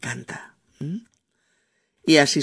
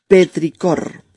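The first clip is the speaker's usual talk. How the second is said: "Petricor" said louder and clearly; announcing; 6 dB louder, slower than usual. Shown as a demonstration. Teacher repeating the new word to listeners, louder. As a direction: present "Petricor" firmly as the word of the day.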